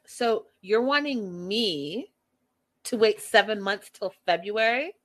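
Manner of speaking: drawn-out indignant question, rising at the end; mildly mad retelling. Retold or imitated. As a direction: imitate her mild indignation, leaning on "me". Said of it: "She gets mad".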